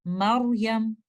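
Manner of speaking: मरियम with a thick heavy र. Shown as a demonstration. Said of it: "आप रॉ को heavy करेंगे".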